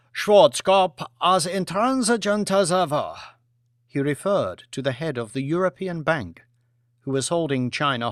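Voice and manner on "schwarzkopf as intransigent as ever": higher, dismissive reply; Premier's voice. Acted. Lee complains to Lord Martin about Schwarzkopf, dismissive. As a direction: brush off the banker.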